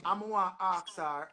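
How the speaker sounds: "wanna ask her" in Patois vowels; Jamaican Patois phrasing. Real, not acted. Rephrases patois into standard English.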